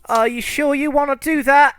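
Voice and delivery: high, loud monster voice; a menacing creature taunting them; squeaky, menacing monster taunt. Acted.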